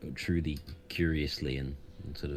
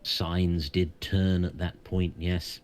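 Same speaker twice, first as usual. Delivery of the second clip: solemn, foreboding centaur; wise centaur voice; 2 semitones higher than usual. Acted. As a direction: warn them gravely, like a seer. GM holds the centaur's voice.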